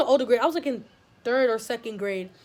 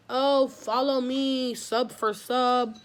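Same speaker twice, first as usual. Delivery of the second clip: slow, drawn-out mimicry; mildly mocking, stretched-out plea; mock follower-begging; much slower than usual. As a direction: imitate a tiresome self-promoter, dragging it out.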